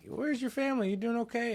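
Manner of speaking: put-on very high baby-talk to a lost kitten; high sing-song voice for a kitten; cooing at a kitten. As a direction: coo up high and sweet at the stray. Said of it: "I'm like".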